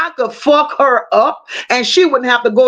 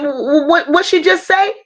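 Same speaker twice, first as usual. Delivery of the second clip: stuttering; 3 semitones higher than usual. Retold or imitated. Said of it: "he was stuttering".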